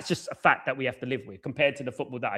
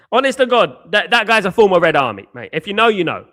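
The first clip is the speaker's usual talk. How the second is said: excited shout; 2 semitones higher, 8 dB louder than usual. Real, not acted. Excited shout about a fan.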